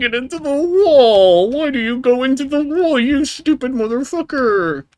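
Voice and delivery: shrieking high and loud at the game; high enraged yell at a stupid ball; furious high shriek. Real, not acted. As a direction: screech the insult in pure frustration.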